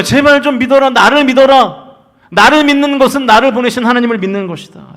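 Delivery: high, loud, urgent appeal; crying out. Retold or imitated. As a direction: call out to the crowd, imploring them. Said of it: "그 외침의 핵심이 무엇입니까".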